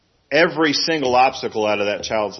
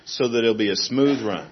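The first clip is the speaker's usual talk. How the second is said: fussing parent. Retold or imitated. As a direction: play the overprotective parent rushing in. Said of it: "a good parent doesn't run up and say".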